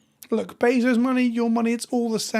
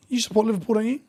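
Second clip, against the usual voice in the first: whisper; 2 semitones higher, faster than usual. Real, not acted. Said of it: "baby asleep across hallway".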